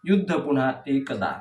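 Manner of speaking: measured verse reading with falling line endings; declaimed poetry, leaning on each opening word; poem recitation. Acted. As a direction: recite the verse line by line, pausing between phrases. Recites second poem aloud.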